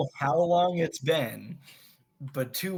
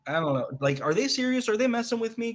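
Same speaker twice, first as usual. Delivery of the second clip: worried appeal; 3 semitones higher than usual. Acted. Hobbit asking Damrod for a card, mildly worried. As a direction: voice rises as the worry runs on. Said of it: "and be like".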